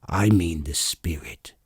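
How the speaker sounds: hushed confiding whisper. Acted. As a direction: breathe it, almost unvoiced. Dwarf confides quietly.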